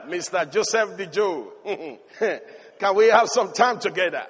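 giggling, seductive invitation; Potiphar's wife flirting with Joseph; flirtatious laugh. Retold or imitated. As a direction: tease him with a laugh. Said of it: "Potiphar's wife says".

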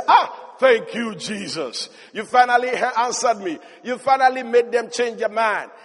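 a laughing, relieved thank-you; laughing relief. Retold or imitated. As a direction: breathe out thanks through a laugh. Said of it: "I can imagine him begin to say".

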